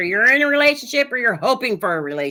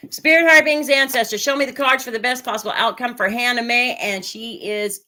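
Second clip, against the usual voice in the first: tarot invocation. Acted.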